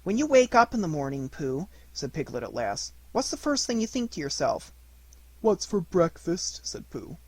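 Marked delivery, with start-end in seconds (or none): 0.0-4.7 lightly voiced small piglet. 5.4-6.6 slow, simple bear voice; slow honest bear; Pooh bear. Acted. Pooh's voice.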